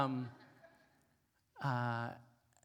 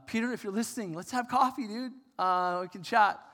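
loud call-out; 5 semitones higher, 8 dB louder than usual. Real, not acted. Speaker calls out to Peter, inviting him to coffee, loudly. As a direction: call out to him, half joking, loud and high.

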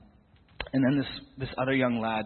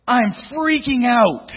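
slow, much higher, much louder overjoyed yell; ecstatic shout; 13 semitones higher, 16 dB louder, much slower than usual. Retold or imitated. Healed girl yelling as she runs out overjoyed. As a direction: let it burst out, stretched and overwhelmed.

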